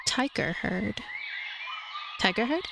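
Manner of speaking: ordinary talk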